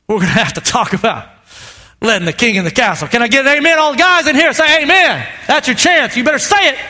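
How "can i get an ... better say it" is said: rally the congregation; preaching call. Acted. Calling for amen.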